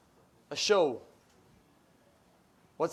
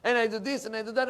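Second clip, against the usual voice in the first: loud, raised-pitch defiant quote; open, brazen declaration; 7 semitones higher, 8 dB louder, faster than usual. Retold or imitated. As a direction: proclaim it openly, high and loud. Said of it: "He said openly".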